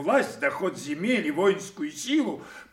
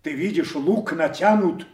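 angry warning; 4 semitones higher, 5 dB louder than usual. Acted. King warns Kent off, enraged.

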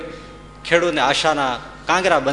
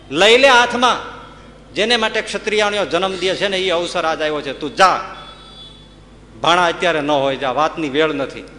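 higher and louder, fierce urging; a mother sending her son to fight; rousing command; 5 semitones higher, 3 dB louder than usual. Acted. Mother urging her son to take the gun, fierce.

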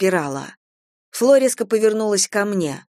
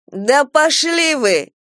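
high, loud and slow yell of fury; furious shout; 8 semitones higher, 4 dB louder, much slower than usual. A narrator's reading. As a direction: hurl it at the whole room. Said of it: "закричала Фло".

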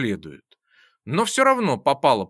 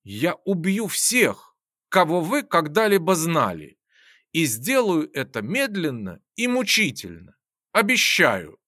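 chilling quiet promise. Acted. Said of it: "проникновенным тоном закончил".

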